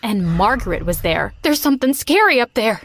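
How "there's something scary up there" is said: shrieked. A narrator's reading. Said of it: "Jerry shrieked".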